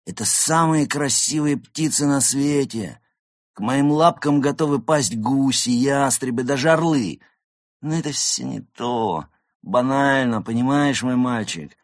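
high, swelling theatrical rapture; rapturous goose diva. Acted. Actress telling a young cat about splendid peacocks, rapturous diva. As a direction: gush grandly, then dismiss the lesser birds.

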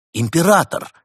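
high, loud outburst; sudden exclamation. A narrator's reading. Артём jumping on the spot, startling everyone, excited shout. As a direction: blurt it out in sudden realization. Tiger cub jumps with sudden realization.

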